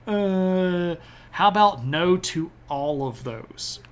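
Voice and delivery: a cheeky flat no to all of it; playful dismissive refusal; sassy refusal. Retold or imitated. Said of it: "Russia's like".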